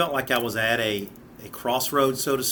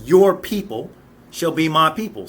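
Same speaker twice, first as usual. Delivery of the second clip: louder, higher declaration; preached emphatic quote; 3 semitones higher, 6 dB louder than usual. Retold or imitated. Preacher voicing Ruth's vow to Naomi, loud and emphatic. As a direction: proclaim it with conviction. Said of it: "then she says".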